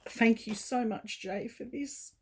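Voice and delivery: real tears, voice cracking up high; choked up, pushing out the thanks; voice breaking. Real, not acted. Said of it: "I'm getting a bit emotional here".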